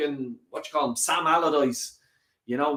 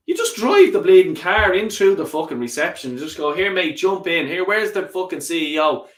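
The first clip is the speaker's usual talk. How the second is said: raised, higher-pitched bluster; mock bravado; 3 semitones higher, 5 dB louder than usual. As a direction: act out barging in and demanding the boss. Acts out barging into reception.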